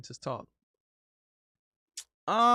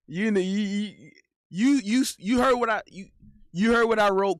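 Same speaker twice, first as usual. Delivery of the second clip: insistent; 5 semitones higher, 5 dB louder than usual. Real, not acted. Insisting loudly to chat.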